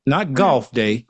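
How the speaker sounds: "golf" said in an Arkansas accent, like golf; Southern "golf" for "goth". Real, not acted. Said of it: "my Arkansas accent".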